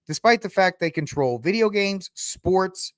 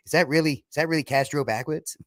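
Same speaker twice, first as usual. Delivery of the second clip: lightly mocked bad movie accent; a hint of Mayor Quimby's accent; Kevin Costner; faster than usual. Costner quizzing his aide, lightly mocked accent. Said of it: "His accent almost destroys that film".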